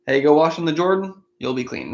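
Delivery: offhand everyday retelling of the command; casual paraphrase. Retold or imitated. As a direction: say it like a casual hey, no big deal. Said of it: "So pretty straightforward, pretty simple".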